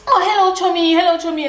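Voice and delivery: high, sing-song camp hello; flamboyant greeting. Retold or imitated. Flamboyant friend arriving and greeting the girl, high gushing hello. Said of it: "very flamboyant gay guy".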